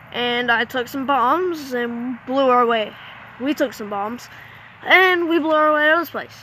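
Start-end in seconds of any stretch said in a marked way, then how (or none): 3.4-6.3 a hyped action-movie line; dramatic retake. Shown as a demonstration. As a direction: land the blowing-out like an action trailer. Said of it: "retakes the line".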